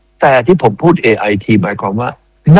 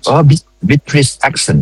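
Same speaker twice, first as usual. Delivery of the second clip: British accent; 4 semitones higher, much slower than usual. Shown as a demonstration. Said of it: "ผมจะใช้ accent เจ้าของภาษา".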